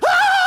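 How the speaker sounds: very high, loud group shriek; hammed-up scream of everyone freaking out; mock panicked scream. Everyone on the boat freaking out, mock high shriek. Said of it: "everyone's freaking out".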